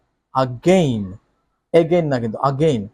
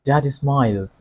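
smiling read; much slower than usual. Shown as a demonstration. Teacher reads the father's smile with a gentle smiling tone. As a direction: say it with a slight smile. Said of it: "আপনার মুখে একটু হাসি থাকবে".

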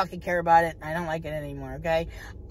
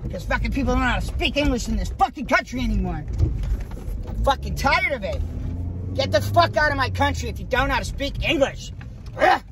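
real angry venting, raised pitch; pissed off; 4 semitones higher than usual. Real, not acted. Driver venting to viewers after a coffee order, pissed off. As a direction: rant as if you've had enough. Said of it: "Now I'm pissed".

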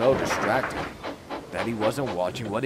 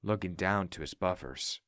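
low, subdued storytelling; sombre narration; 4 semitones lower, 8 dB quieter than usual. A narrator's reading. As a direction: narrate the grief softly and low. Narrates grief after the death.

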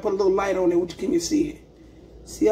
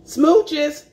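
playful goodbye kiss; 5 semitones higher, 4 dB louder than usual. Real, not acted. Blowing kisses goodbye.

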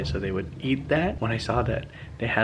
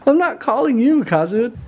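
higher, louder call to the dog; 11 semitones higher, 8 dB louder than usual. Real, not acted. Telling the other dog off.

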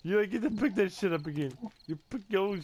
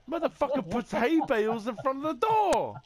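angry yelling; 7 semitones higher than usual. Real, not acted. Furious after dying in game.

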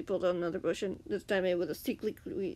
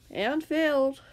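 bitter retort, higher and louder; 6 semitones higher, 6 dB louder, slower than usual. A narrator's reading. Captive Grian answers his captor about escaping, bitterly. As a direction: throw it back with bitterness. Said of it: "Grian said bitterly".

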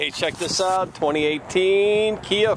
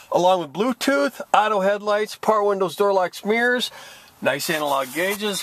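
winded after a rapid feature list; breathless, running short on air; out of breath. Real, not acted. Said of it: "Whoa, I'm almost out of breath".

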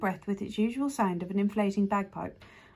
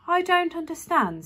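higher, louder, bewildered; girl can't follow the creature, higher and louder; puzzled girl; 8 semitones higher, 5 dB louder than usual. A narrator's reading. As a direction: blurt out her confusion. Daisy confused.

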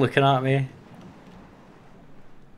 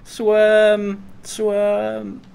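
high frantic urging; urgent; 8 semitones higher, 3 dB louder than usual. Real, not acted. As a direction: yell at yourself to go. Urging himself to flee.

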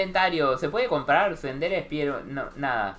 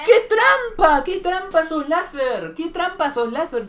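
high, loud cry of foul; indignant gamer complaint, drawn out; outraged protest; 7 semitones higher, 4 dB louder than usual. Real, not acted. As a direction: protest the cheating lasers at high pitch. Protesting after dying to lasers.

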